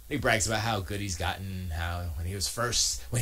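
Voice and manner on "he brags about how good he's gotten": ordinary delivery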